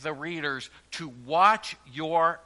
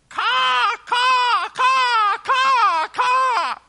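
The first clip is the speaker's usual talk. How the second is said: loud, high shrieking caw of gulls; seagull caws; 11 dB louder, much slower than usual. Retold or imitated. Preacher imitating gulls at the pier, loud high cawing. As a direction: screech like a flock of seagulls. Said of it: "That is the picture of this Greek word".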